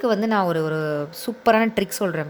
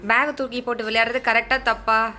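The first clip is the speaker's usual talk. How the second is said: patient comforting; 2 semitones higher than usual. Real, not acted. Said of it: "பொறுமையா சொல்லியிருக்கேன்".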